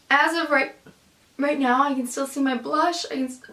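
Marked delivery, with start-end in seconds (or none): 3.1-3.4 words broken by hiccups; suppressing hiccups. Real, not acted. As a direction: cut off by a hiccup. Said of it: "sorry, I have hiccups".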